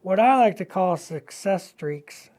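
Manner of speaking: talking around a paintbrush in mouth; words muffled by a brush held in teeth. Real, not acted. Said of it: "I got a brush in my mouth".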